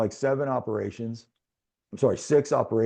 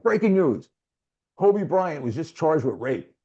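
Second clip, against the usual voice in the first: lightly voiced TV anchor, higher and louder; news anchor; 5 semitones higher, 3 dB louder than usual. Retelling the TV newscast in hospital, lightly voiced anchor. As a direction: announce it like a hint of a newscaster. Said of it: "right into the, like, newscast".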